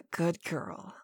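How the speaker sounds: ordinary delivery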